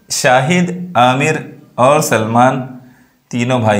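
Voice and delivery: "Shahid," set apart by a short pause, then "Aamir और Salman" drawn out; brief comma pauses. Shown as a demonstration. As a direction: demonstrate the comma with a slight halt after "Shahid". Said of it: "यहाँ पर जो आपने थोड़ी देर के लिए तौकुफ़ किया".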